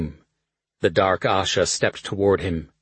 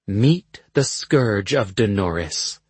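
slow dramatic reveal; slower than usual. Acted. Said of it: "the Bone Witch said".

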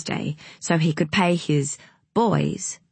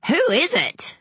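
put-on thrilled child; 11 semitones higher than usual. A narrator's reading. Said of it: "He was thrilled".

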